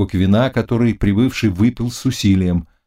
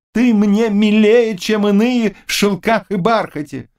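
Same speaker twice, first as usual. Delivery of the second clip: warm effusive praise; 12 semitones higher than usual. Acted. King embraces and praises.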